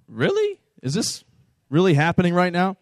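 incredulous. Retold or imitated. Neighbour blows leaves back over.

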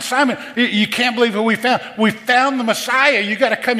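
high-pitched, breathless-with-news excitement; Andrew, excited. Acted. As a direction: imitate a brother bursting with incredible news. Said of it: "You can hear excitement in his voice".

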